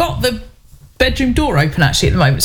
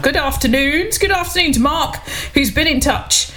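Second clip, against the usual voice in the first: bright lilting hello pitched up high; high sing-song greeting; 6 semitones higher than usual. Real, not acted. Sing-song radio greeting to listener.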